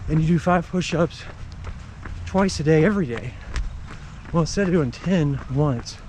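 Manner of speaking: talking while running; a little out of breath from running; while jogging. Real, not acted. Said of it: "Like right now, if I didn't have a habit of running, I would not be out here in the rain".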